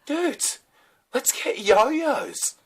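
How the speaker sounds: very high, very slow, loud dopey voice; mocking dopey man. Mocking a man to his mates, high goofy drawl. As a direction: ham up a goofy big man wanting yo-yos. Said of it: "he just goes".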